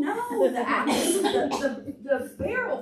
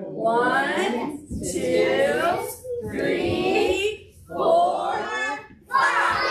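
rising, louder count; building count; 4 semitones higher, 4 dB louder, much slower than usual. Real, not acted. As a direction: build up to the big five. Counting up to the jump.

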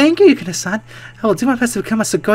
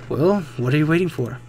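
ordinary delivery

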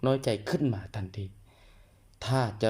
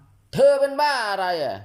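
higher, louder, slow exasperated snap; 11 semitones higher, 8 dB louder, much slower than usual. Acted. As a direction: drag it out, fed up with your partner. Quoted hurtful sentence.

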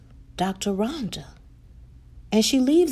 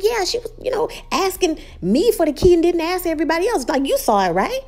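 high, loud, fast and upset; 8 semitones higher, 4 dB louder, faster than usual. Retold or imitated. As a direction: rattle it off indignantly. The speaker recounts incident, upset.

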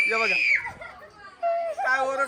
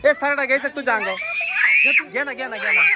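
laughing tease; 4 semitones higher, faster than usual. Real, not acted. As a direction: tease them through laughter, calling out. Teasing kids, laughing, calling out. (हसत चिडवणे)

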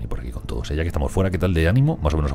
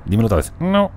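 loud, high demand to repeat; playful insistence; mock plea; 9 semitones higher, 5 dB louder than usual. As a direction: push for it again, louder. Pleading with game character.

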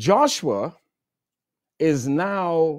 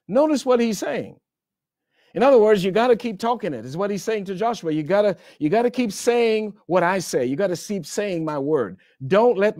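fervent preaching; 5 semitones higher than usual. Real, not acted. Preacher building intensity.

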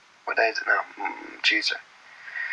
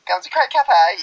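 put-on mumbled American accent; 8 semitones higher, slower than usual. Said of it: "haven't a clue what they're saying".

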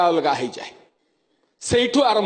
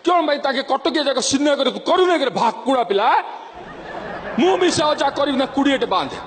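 Berhampur dialect; 4 semitones higher than usual. Retold or imitated. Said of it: "Brahmapur ଆଡ଼କୁ".

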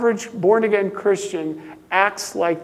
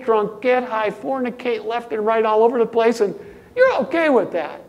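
heated preaching; 4 semitones higher, 5 dB louder than usual. Real, not acted. Mocking the worldly reading.

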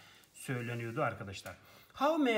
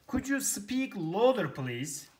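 slow, louder and higher, as if on a bad line; mock bad-line plea for volume; 5 semitones higher, 5 dB louder, slower than usual. Shown as a demonstration. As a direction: ask to be heard over the phone. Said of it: "Daha sesli konuşabilir misiniz".

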